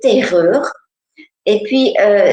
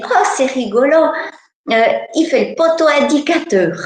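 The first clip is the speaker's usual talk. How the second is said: put-on amused little girl; 5 semitones higher than usual. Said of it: "elle se met presque à rigoler".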